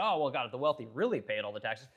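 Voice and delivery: mock voice aping tax-the-rich critics; mocking whiny quote. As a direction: parody the people who want the rich taxed, rushing the end. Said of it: "And then they say".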